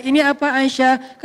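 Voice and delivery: slow, easy storytelling question. Shown as a demonstration. Prophet asking his wife about her handiwork, storytelling tone. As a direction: ask it slowly, as if telling a story. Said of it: "Storytelling tetap harus dipakai".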